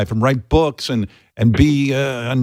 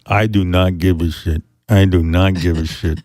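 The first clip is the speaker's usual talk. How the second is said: apathetic Bigfoot voice; 5 semitones lower than usual. Retold or imitated. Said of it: "I was on a real jag".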